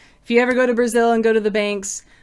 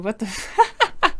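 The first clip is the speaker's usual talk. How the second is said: real amused laughing; 6 semitones higher, 4 dB quieter, slower than usual. Real, not acted. Host reading a dirty question in chat, laughing. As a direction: break into laughter mid-sentence.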